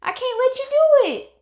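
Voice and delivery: slow, then rising high and loud in defiance; defiant self-talk. Pretend. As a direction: refuse to let them win, build up. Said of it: "they pushed my buttons".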